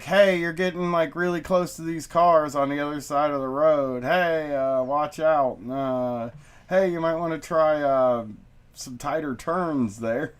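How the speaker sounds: casual, held-back cool dad voice; trying to stay calm. Acted. Dad coaching his kid at the wheel, mild forced calm. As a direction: gently suggest it, hiding the nerves. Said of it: "I'm trying not to show that I'm freaking out".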